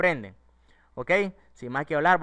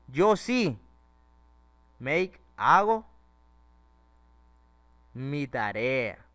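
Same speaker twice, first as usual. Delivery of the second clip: sí raised and loud, make hago drawn out very slowly; teacher showing emphasis, very slow on make hago; emphatic stress; 3 dB louder, much slower than usual. Shown as a demonstration. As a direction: lean hard on sí and stretch make, hago. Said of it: "A eso se refiere con enfatizar".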